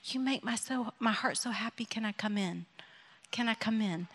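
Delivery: quiet tender plea to come in. Retold or imitated. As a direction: knock softly with the words, no pressure. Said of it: "It's this tender".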